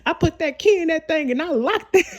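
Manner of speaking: high, quick comic boast, half laughing; playful high-pitched comedian imitation; Kevin Hart. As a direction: quote the stand-up bit, giggling through it. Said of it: "on Kevin Hart, Seriously Funny".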